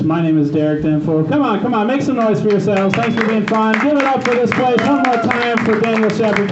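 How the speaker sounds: hype-up club host voice; MC announcer. Acted. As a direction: pump the crowd up between acts. Hosts the comedy show.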